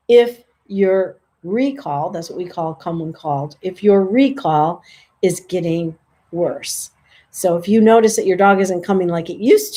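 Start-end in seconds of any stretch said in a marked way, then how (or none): 0.1-2.1 slow emphasis. Shown as a demonstration. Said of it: "slow deliberate". 3.6-6.9 slow emphasis. Shown as a demonstration. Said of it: "slow deliberate".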